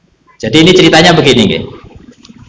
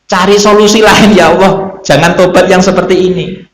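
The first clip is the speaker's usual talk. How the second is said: higher-pitched appeal to God; acted tearful begging, raised pitch; imitated pleading prayer; 4 semitones higher than usual. Two weeping prophets praying to God, imitated pleading. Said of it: "terus akhirnya doa dengan Allah".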